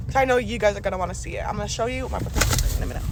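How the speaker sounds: talking with a retainer in; slightly lispy speech from a retainer; wearing a retainer. Real, not acted. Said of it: "I, uh, have my retainers in".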